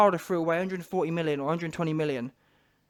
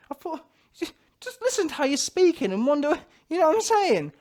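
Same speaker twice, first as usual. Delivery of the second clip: mock crying; 8 semitones higher than usual.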